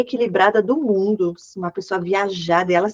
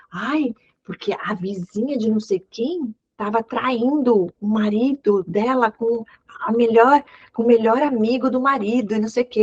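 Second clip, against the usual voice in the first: mock gossip; 2 semitones higher than usual. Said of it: "ela falava pra mim".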